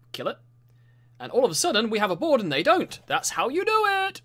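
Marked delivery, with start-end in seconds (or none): 3.1-4.2 booming metallic robot laugh, slow; slow, booming mechanical laughter. Shown as a demonstration. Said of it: "That's how you laugh in a robot voice".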